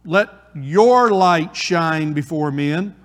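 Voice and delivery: "your" leaned on, slow and drawn out; stress on your. Shown as a demonstration. Preacher pointing disciples to their own light, slow stress on "your". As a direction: hit "your" in "let your light shine before men". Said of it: "your, pronoun your".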